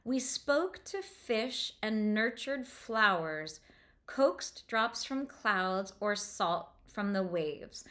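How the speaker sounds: rereading to show the internal rhyme; slow reread for the sounds. Shown as a demonstration. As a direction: bring out the long O sounds. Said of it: "So this O sound of spoke".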